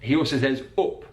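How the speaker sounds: "another" and "up" with a short northern oo vowel. Shown as a demonstration. Teacher imitating Harry Maguire's Yorkshire vowels. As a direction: say "up" like "oop". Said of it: "that uh sound".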